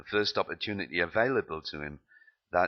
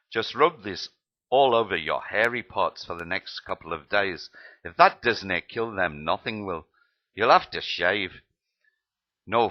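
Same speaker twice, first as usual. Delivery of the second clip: put-on Scottish accent; 4 dB louder than usual. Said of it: "My Scottish accent is rubbish".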